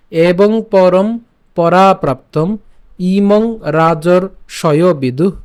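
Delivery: very slow, stretching সকালেনে; lingering on each syllable; slow teaching chant; drawn-out recitation. Shown as a demonstration. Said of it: "নে পর্যন্ত উচ্চারণ করেছি".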